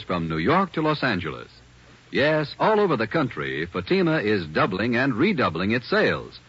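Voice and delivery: upbeat commercial announcer; radio ad pitch, bright and confident; ad read. Acted. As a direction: sell it to the listeners.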